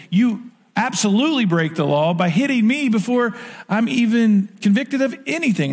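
high, incredulous protest at his accusers; a mock-outraged "how dare you" retold; indignant Paul. Paul confronting the council, mock indignant. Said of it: "So Paul's like".

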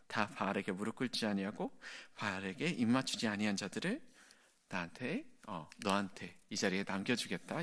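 God softly promising Elijah he is not alone; gentle promise. Acted. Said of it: "굉장히 부드럽게".

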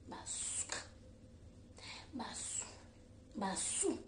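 very soft repeated name; soft murmur. Real, not acted. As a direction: murmur it under breath. (koloba na nse mpenza)

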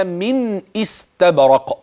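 من استبرق slowly, nun pronounced clearly. Shown as a demonstration. Teacher reciting the phrase for students to notice. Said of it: "لاحظ كلمة من".

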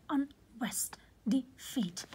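"unrest" and "defeat" with the weight on the second syllable; stress on second syllable. Shown as a demonstration. Teacher giving examples of iambic words, second syllable stressed in "unrest", "defeat". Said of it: "stress is on the second syllable".

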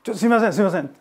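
calling out. Retold or imitated. Ryu-san calling to director.

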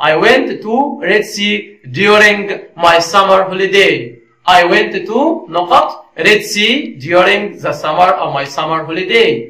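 very slow, word-by-word reading; slow dictation. Shown as a demonstration. Teacher reading a gap-fill question to learners, slow dictation. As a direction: read the question out slowly in separate chunks.

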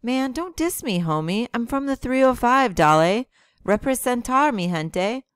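loud, high swaggering rapper hype; impression of a rapper. The speaker imitates a rapper to tease his friend, loud swagger. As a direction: hype yourself up like a rapper on stage. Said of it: "Like your pit bull".

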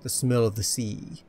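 slow, dramatic storyteller voice; mock-epic narration. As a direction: narrate the hero's triumph, savouring it. Narrates own character's victory as story.

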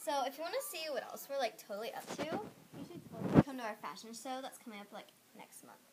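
loud, fast pitch for the show; hard sell ad. Acted. Plugging the fashion show.

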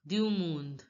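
du monde as "dyu mond"; silent final e. Shown as a demonstration. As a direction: end monde right on the d. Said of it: "E is not pronounced".

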